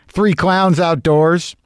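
slow, amused, laughing repeat. Real, not acted. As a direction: laugh through it, drawn out slowly. Repeats line laughing, slowed.

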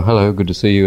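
light English accent. Shown as a demonstration. Robin demonstrating the English half, light English accent. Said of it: "English accent".

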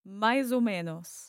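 learner's smoother "maizo menos". Shown as a demonstration. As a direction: run "mais ou menos" together as one phrase. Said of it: "And try quickly".

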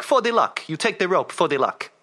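lightly put-on Polish accent, policeman; a hint of a Polish accent; bad Polish accent. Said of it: "I'm gonna do a bad Polish accent now".

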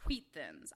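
Wheat Thins with "hw" at the start of Wheat; WH aspiration. Shown as a demonstration. Showing co-host an acceptable example, hw in Wheat. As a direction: puff an H before the W in Wheat. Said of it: "Put V W H on things".

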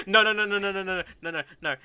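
rapid, loud nos through laughter; giggly, insistent objection; laughing protest. Real, not acted. Laughing while rejecting co-writer's idea.

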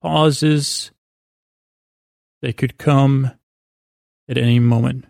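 long pauses after "Pauses" and after "come"; gratuitous pauses. Shown as a demonstration. Sleep podcaster showing listeners his meander powers, gratuitous pauses. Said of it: "like, gratuitous pauses".

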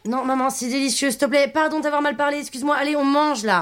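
pleading apology. Acted. Apologises to end the quarrel.

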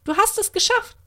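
high excited fairy cheer. A narrator's reading. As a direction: whoop it out with joy. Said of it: "jauzte die kleine Fee".

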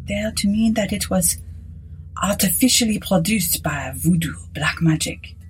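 hushed, half-whispered priest; quiet. Acted. Priest explaining voodoo to Aylett, quietly. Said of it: "The priest replied quietly".

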